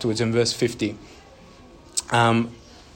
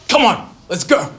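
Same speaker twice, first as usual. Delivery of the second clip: put-on higher, louder parent hurrying a kid; impatient parent; 8 semitones higher, 7 dB louder than usual. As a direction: tug the child along, exasperated. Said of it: "they're like".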